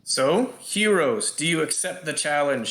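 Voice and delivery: yelling out. Acted. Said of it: "she yells out".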